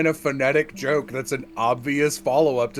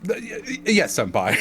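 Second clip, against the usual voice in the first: timid stammer; 7 semitones higher than usual. Retold or imitated. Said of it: "I could imagine him going like".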